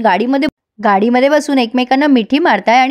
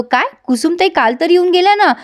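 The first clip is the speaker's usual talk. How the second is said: higher, startled disbelief; shocked; 5 semitones higher than usual. Retold or imitated. Arjun startled by mother's plan, shocked disbelief. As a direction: blurt it out, caught off guard. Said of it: "एवढं धक्का बसायला काय झालंय तुला?".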